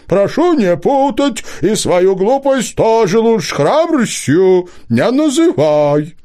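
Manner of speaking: high, slow owl voice, correcting; a prim owl setting things straight; owl objecting. A narrator's reading. Owl continues scolding fox.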